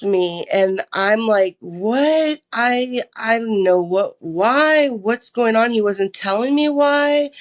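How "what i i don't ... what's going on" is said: higher, stammering confusion; halting, baffled questions; bewildered. Retold or imitated. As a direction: replay the shock of being arrested. Bewildered at sudden arrest.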